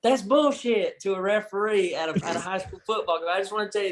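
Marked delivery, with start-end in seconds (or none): 0.0-1.0 raised, higher mock yell; retold yell. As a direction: re-enact yelling at a referee, not full volume. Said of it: "heard me yell".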